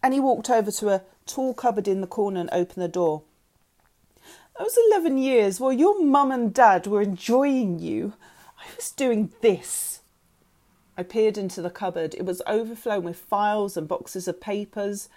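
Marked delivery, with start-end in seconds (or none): 4.6-10.0 loud, high reproach slowing down; bitter revelation. A narrator's reading. Mother revealing her cupboard of searches, bitter.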